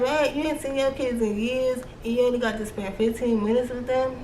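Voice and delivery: high, fast outraged disbelief; shocked disbelief. Retold or imitated. Vlogger reacting to the book's fifteen-minute visit, outraged disbelief. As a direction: blurt it out like you can't believe it. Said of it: "I was like".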